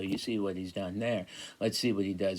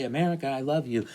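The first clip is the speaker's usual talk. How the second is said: quick, higher, mock-gushing "America, I love you"; gushing patriotic; 5 semitones higher, faster than usual. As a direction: rattle it off like a patriotic pledge. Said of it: "Like, he's gonna say".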